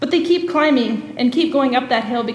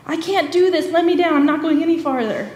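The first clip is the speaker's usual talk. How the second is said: higher, pleading, lightly acted panic; mock-tearful plea to be let down; retold kid begging from the ropes, a touch of fear; imitating a scared kid; 4 semitones higher than usual. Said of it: "tears rolling off his face".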